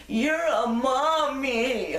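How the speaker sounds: put-on high, slow small-child voice; a tiny kid looking up, amazed; little boy. Lost boy tugging on the braid, high slow child voice.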